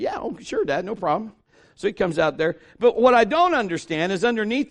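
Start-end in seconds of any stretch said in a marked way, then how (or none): 0.0-1.3 eager son. Retold or imitated.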